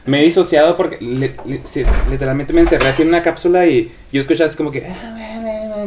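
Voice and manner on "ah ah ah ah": high, mock distant yelling; imitación de gritos. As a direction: imitate muffled yelling as wordless noise. (remedo de gritos sin palabras)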